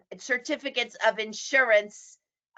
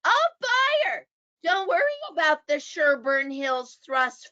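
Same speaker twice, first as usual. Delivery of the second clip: smooth-talking realtor. Retold or imitated. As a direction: brush off the buyer's worry. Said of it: "coming out of the mouths of realtors".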